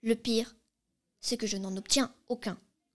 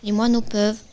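loud; 8 dB louder than usual. Acted. Stork complaining she is too big.

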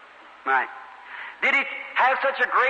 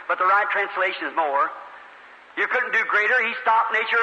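ordinary talk

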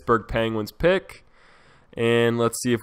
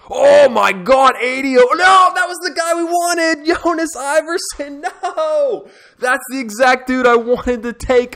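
high, loud disbelieving outcry; stunned outcry; 6 dB louder, slower than usual. Real, not acted. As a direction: cry out in shock as the player you wanted is taken. Sees wanted player drafted by another.

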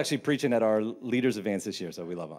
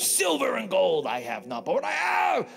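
put-on British accent; 8 semitones higher than usual. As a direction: shout it like a Monty Python Brit. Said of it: "So it's British".

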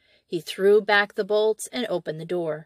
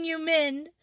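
mother wailing; 8 semitones higher, 4 dB quieter than usual. A narrator's reading. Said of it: "wailed the mother".

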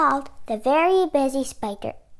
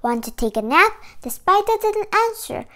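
measured picture-book reading, clearly projected; story read-aloud; 3 dB louder, faster than usual. Acted. Reading a spider picture book to children, story read-aloud.

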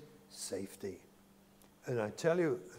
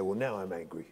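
laughing mock anger; 6 semitones lower, 3 dB quieter, faster than usual. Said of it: "Usually they say".

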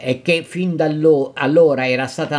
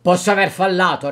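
softened voice; 3 semitones higher than usual. Acted. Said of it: "con voce raddolcita".

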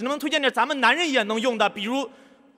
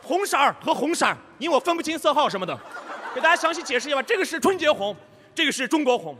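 hyped-up macho seller, higher; bro-style livestream host; 5 semitones higher than usual. Retold or imitated. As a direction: ham it up for the brothers. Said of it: "我们一上来".

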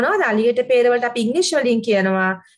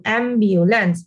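slow model word; 3 semitones lower, much slower than usual. Shown as a demonstration. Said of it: "Listen carefully and pronounce after me".

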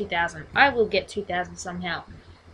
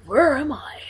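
whisper; 5 semitones higher, 7 dB louder than usual. Pretend. Acting game character lines.

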